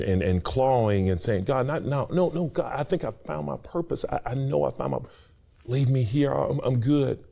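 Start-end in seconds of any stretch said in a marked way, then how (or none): 1.4-7.2 protesting plea. Retold or imitated. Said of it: "kicking and screaming and saying".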